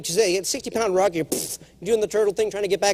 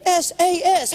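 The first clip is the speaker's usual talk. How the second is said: higher, louder spelled-out initials; exasperated S A S, higher and louder; 12 semitones higher, 4 dB louder, slower than usual. Real, not acted. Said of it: "How hard are three initials?".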